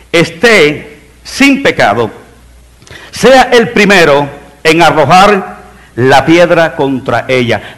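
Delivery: slow scripture quote with long pauses; Jesus' solemn pronouncement. Retold or imitated. Preacher quotes Jesus answering the accusers, slow solemn pronouncement. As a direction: pronounce it deliberately, phrase by phrase. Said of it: "dice que se enderezó y dijo".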